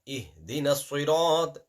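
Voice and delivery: Ihdina with an airy throaty ih; heavy ih sound. Shown as a demonstration. Teacher stressing the ih in Ihdina. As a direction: breathe the ih out. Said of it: "No, ih".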